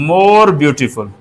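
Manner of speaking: slow, careful model phrase; teacher reading an example word by word; slow dictation. Shown as a demonstration. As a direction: dictate it slowly to the class. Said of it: "आप कहेंगे".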